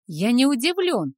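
loud angry shout. A narrator's reading. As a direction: yell it at the father. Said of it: "выкрикнул Дамиан".

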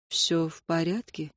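soft, slow and hushed question; quiet. A narrator's reading. Ray asks Minnie quietly, hushed and slow. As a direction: ask gently under your breath. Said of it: "тихо спросил он".

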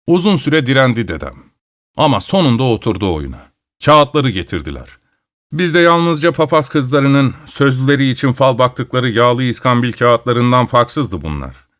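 usual speaking voice

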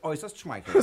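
amused and flattered, with a laugh; a self-satisfied laugh through the words. Acted. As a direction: chuckle it out, pleased with himself. Thief flattered by his fame.

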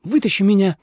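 high, insistent order; angry demand. A narrator's reading. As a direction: demand rescue impatiently. Trapped snake demands help.

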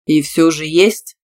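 slow, level, insistent question; calm. A narrator's reading. Tima pressing about a boyfriend, calmly. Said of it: "спокойно спросил он".

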